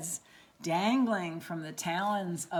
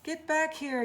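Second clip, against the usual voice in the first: commanding yell; 7 semitones higher than usual. Acted. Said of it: "yelled Pip".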